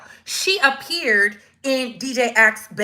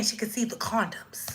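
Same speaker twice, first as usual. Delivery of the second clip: hushed, secretive whisper; 13 dB quieter than usual. A narrator's reading. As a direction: drop to a whisper for the shocking detail. Shocking detail told in story.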